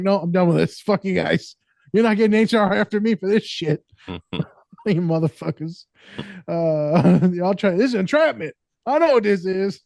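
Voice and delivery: high, laughing hammed-up exit; laughing mock outrage. Man fleeing pregnancy mix-up, laughing mock outrage. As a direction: storm off in fake indignation.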